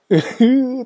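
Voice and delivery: high mock wail of frustration. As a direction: imitate a player's bitter, drawn-out groan. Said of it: "駒野の真似をね". (悔しがる選手のものまね)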